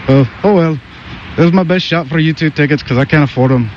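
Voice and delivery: put-on Irish accent. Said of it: "I have the Irish accent".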